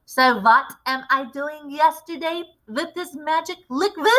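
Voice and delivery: a lightly voiced commanding witch leader; a hint of a grand witch showing off her recipe; Grand High Witch. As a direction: lecture the coven like their boss.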